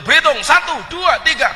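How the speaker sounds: high, loud drill count; Kudus counting. Retold or imitated. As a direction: count off crisply like a Kudus recruit. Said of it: "Kalau orang Kudus berhitung". (berhitung ala orang Kudus, suara tinggi dan lantang)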